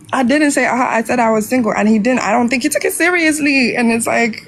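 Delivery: protest, flustered and high; flustered defence. Real, not acted. Guest defending herself against the host's teasing, flustered. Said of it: "defends herself".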